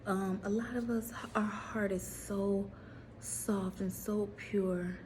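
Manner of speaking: a hushed tender slow-down. Real, not acted. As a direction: soften right down, lovingly. Tender soft description.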